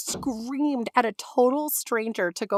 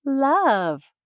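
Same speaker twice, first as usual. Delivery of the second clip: mock clerk; 5 semitones higher, 5 dB louder than usual. Mimicking clerk's love.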